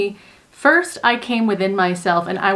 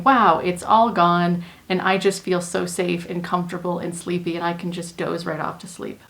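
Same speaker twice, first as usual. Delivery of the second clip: fading into sleepy calm. Shown as a demonstration. Voicing a calmed baby for listeners, softening into sleep. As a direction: let it drift off like falling asleep.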